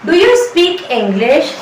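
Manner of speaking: very slow, stretched words; slow model sentence for learners; slow teaching demo. Shown as a demonstration. Teacher modelling the full question, very slow. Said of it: "अगर आपको बोला हो".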